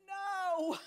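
sudden high shouted no; screamed no. Retold or imitated. Retelling her protest to friends, a loud scream. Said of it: "I screamed it rather loudly".

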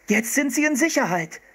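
lightly voiced boy calling out. A narrator's reading. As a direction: call out the good news. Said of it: "rief Philipp".

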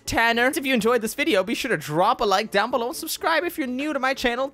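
upbeat channel sign-off; YouTube outro. Acted. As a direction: wrap up the video for viewers.

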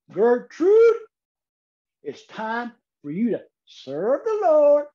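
put-on high, loud old lady calling out across the yard. Old woman on her porch calling her chicken, high and loud. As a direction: holler it off the porch like a country granny.

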